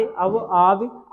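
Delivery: अव and आव drawn very slowly; teacher modelling slowly; very slow syllables. Shown as a demonstration. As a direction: stretch each sound. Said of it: "पढ़ते समय".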